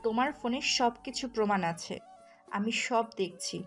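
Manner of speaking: heated accusation with punched words; jealous wife's angry tirade. Acted. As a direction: confront him with proof, crossly. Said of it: "আয়না রেগে গিয়ে বলল".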